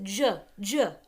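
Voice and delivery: "J" said as juh, twice with a gap; soft G. Shown as a demonstration. Teacher showing how giraffe begins, soft G. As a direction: repeat the lone sound juh for "J". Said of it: "We pronounce it".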